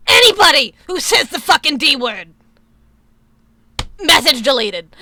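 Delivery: loud, angry warning to chat; shouted warning. Real, not acted. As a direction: shout it as a final threat.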